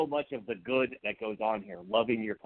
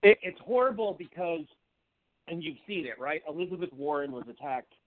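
voice changed; 3 semitones higher than usual. Real, not acted. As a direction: voice going up on its own. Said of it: "all of a sudden my voice has changed".

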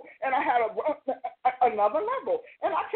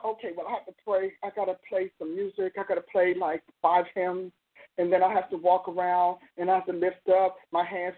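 lightly mocked low, plodding prayer routine; a hint of weary routine in a lower voice; reluctant worshipper; 5 semitones lower than usual. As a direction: list the chores like someone dutifully warming up. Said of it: "I look at people".

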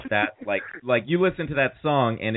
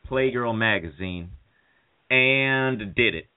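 hammed-up Cal Naughton speech to Ricky; Cal Naughton impression. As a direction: play Cal pleading over his buddy in the hospital. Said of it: "this is the speaker's Cal Naughton".

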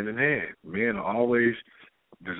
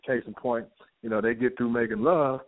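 ordinary delivery

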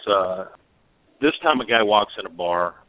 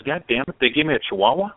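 higher-pitched indignant punchline; mock indignation; 5 semitones higher than usual. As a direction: act mildly outraged and baffled, voice lifting. Blind man's punchline in joke.

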